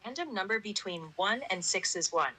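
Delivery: flat synthetic voice; robot voice. Real, not acted. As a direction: computer text-to-speech. Dice bot voice answers.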